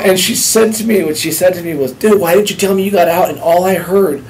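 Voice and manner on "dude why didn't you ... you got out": loud, raised scolding voice; imitated yelling. Woman berating him for not telling her, imitated yelling. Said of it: "all the screaming and yelling".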